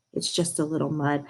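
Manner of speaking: soft and gentle reassurance; gently. A narrator's reading. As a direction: play it down softly. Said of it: "said gently".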